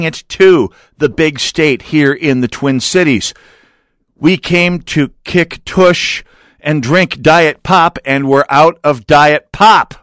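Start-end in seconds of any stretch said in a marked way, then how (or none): 4.1-9.9 slow, drawn-out mock tough boast; mock aggressive battle cry. Radio host to listeners, a half-hearted slow tough-guy boast. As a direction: ham up a fierce war cry, slowly. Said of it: "That may not have sounded as aggressive as I wanted it to".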